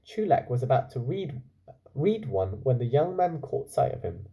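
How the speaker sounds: calm storytelling voice; story narration. A narrator's reading. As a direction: read it like a bedtime story. Reads story aloud.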